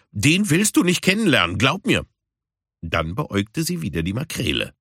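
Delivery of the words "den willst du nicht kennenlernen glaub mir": higher, ominous friendly warning; Puma warning. Acted. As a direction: trust me, you don't want to. Puma warns Caruso. (höher, warnend)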